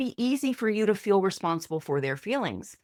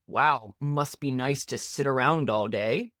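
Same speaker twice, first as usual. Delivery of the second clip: passive aggressive; 7 semitones lower than usual. Pretend. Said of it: "when dealing with passive aggressiveness".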